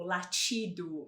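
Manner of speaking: "latido" with TI said as chee; slow "latido", the T turned to tch; tch sound. Shown as a demonstration. Teacher showing the Portuguese tch in "latido", drawn out. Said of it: "palavras que tem som de tch".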